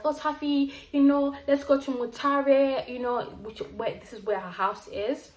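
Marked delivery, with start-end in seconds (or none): 0.1-3.2 higher, slower grandma voice; grandma quote. Retold or imitated. Grandma urging her to visit Mutare, higher and slower. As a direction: coax like a grandma. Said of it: "my grandma was like".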